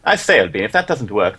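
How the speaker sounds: English accent impression. Shown as a demonstration. Co-streamer offering viewer an English accent, put on. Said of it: "then how about this".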